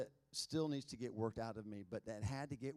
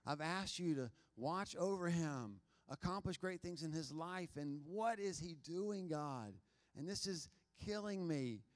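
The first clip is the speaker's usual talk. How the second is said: understated re-enacted tearful prayer; imitated weeping prayer; 2 semitones higher than usual. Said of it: "I'm sure just weep before the Lord".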